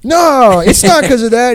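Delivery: high, hammed-up kid voice, hurriedly denying; mock polite backpedal. The friend group nervously denying they avoid the weird kid, in high, hammed-up voices. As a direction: squeak out a fake-nice denial.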